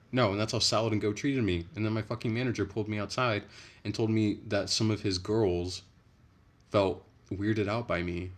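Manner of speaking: loud, emphatic venting; indignant rant. Real, not acted. Indignant retelling of bad treatment.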